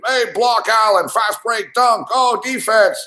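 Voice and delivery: high-pitched, thrilled call of each play; excited play-by-play. Retold or imitated. Reliving the comeback for listeners, excited high call. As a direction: call the comeback like a hyped announcer.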